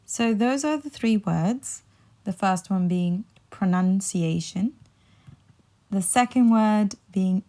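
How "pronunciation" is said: pronunciation with NUN, rising at the end; pro-NUN-ciation for pronunciation, list-like rise; correct pronunciation. Shown as a demonstration. Teacher sums up the first word, pronunciation with NUN. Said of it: "put the nun instead of the noun".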